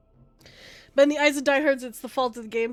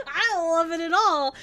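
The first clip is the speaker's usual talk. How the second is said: laughing through the line I don't love it at all; laughing repeat; 5 semitones higher, 5 dB louder than usual. Real, not acted.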